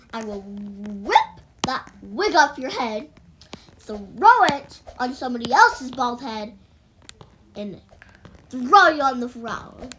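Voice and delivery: dramatic threat with loud punched verbs; hammed-up angry warning; mock threat. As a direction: threaten her, hammering each action. Acted threat to lying friend.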